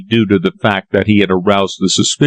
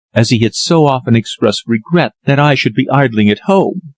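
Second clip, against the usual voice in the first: put-on lightly raised young woman's voice, earnest; Lily's voice; 3 semitones higher than usual. Lily explains her father.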